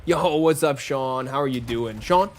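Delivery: loud greeting in a light Irish accent. Shown as a demonstration. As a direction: hail a friend with a put-on Irish lilt. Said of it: "I start speaking with an Irish accent".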